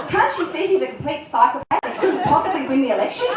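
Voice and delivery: put-on giggly girlish diary voice; embarrassed diary reading. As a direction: read the diary as a gushing girl. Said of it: "Dear diary".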